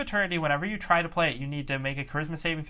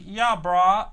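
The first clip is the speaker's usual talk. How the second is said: slangy bro greeting; lightly voiced surfer bro; gym bro; 3 semitones higher, 6 dB louder than usual. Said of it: "he's like".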